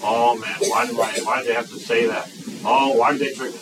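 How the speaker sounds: a hint of a whiny complainer; mock complaining whine. Preacher imitating grumbling church kids, mock whine. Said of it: "Complaining words".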